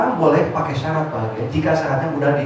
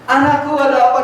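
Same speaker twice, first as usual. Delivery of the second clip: startled mother; 7 semitones higher, 4 dB louder than usual. Retold or imitated.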